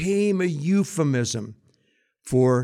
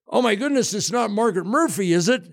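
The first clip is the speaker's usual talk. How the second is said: alarmed priest; 6 semitones higher than usual. Acted. Alarmed priest in confession joke.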